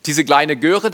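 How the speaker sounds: loud, high, fast burst of embarrassed glee; excited. Real, not acted. Preacher showing his old photo, loud and giddy. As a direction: blurt it out laughing at yourself.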